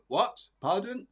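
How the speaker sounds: straining to hear, mildly hammed-up; mock deaf "What? Pardon?". Medium relaying a deaf grandmother, mildly mock straining to hear. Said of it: "she said more of".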